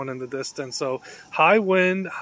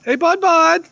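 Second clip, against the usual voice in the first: high, loud call for attention; pitched-up pet call; 13 semitones higher, 10 dB louder than usual. Real, not acted. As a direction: call out to get an animal's attention. Calling out to the squirrel.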